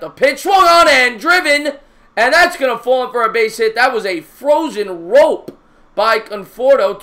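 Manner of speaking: loud, high shout as the ball is driven; shouting the base hit home; excited hit call. Acted. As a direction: call the hit like a broadcaster going wild.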